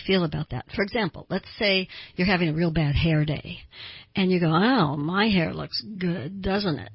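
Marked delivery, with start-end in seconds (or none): 4.5-6.9 slow, drawn-out mock self-praise; ironic. Shown as a demonstration. Someone on a bad hair day joking about their hair, ironic. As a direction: say the opposite of what you feel. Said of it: "You're being ironic".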